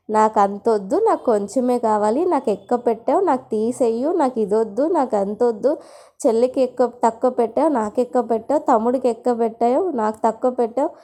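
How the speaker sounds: lightly mimicked squabbling children, line after line; imitated children's fussing. Children complaining to their mother over lunch boxes, lightly imitated fussing. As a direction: list the complaints as kids lightly whining. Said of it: "గోల తయారు చేస్తారు".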